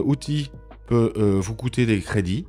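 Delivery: normal talking voice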